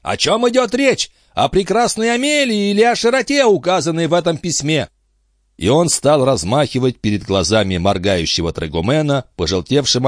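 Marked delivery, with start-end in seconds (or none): 0.0-4.9 higher, eager quizzing captain voice; a high-voiced captain grilling his friend; excitable old sea captain. A narrator's reading. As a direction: press him like a fussy old skipper. Antifer waves the letter.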